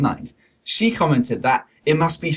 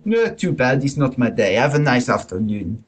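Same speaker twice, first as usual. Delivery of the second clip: put-on French accent. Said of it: "I shall read in exaggerated French accent".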